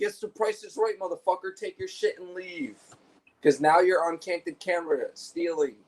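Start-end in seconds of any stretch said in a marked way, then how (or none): 0.0-2.8 higher, hammed-up announcer voice, rising to a squeak at the end; a lightly voiced showman taunting a thief; mock game show host. Telling a shoplifter off as a game show host, mock announcer. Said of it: "I'll be like".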